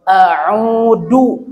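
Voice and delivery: a'udzu said with a plain d, no dz; wrong pronunciation. Shown as a demonstration. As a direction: demo the mistake with a hard d in a'udzu. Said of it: "ini salah juga".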